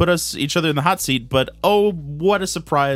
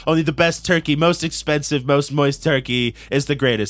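Donald Trump. Pretend. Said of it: "it's Donald Trump".

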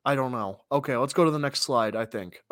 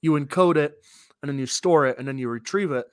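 muffled through a face scarf; 4 dB louder than usual. Real, not acted. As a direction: talk with a scarf over the mouth. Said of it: "I'm just gonna put the scarf back on".

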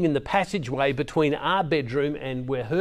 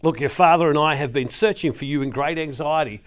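mild frustrated mother; 3 dB louder than usual. Retold or imitated. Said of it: "you can see the anger and frustration in her".

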